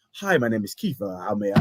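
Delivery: whispery, breathy, polite customer-service phone voice. Imitating someone switching mid-rant to a conference call: mock polite phone voice. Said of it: "He literally went from the, ... to".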